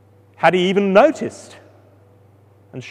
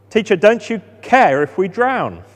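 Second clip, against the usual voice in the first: panicked cry; 3 semitones higher, 4 dB louder than usual. Acted. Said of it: "they're panicking".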